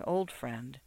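a hushed fond murmur. A narrator's reading. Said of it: "she murmured".

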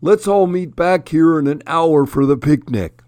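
high-pitched elk voice; elk character. A narrator's reading. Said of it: "Elmo the Elk said".

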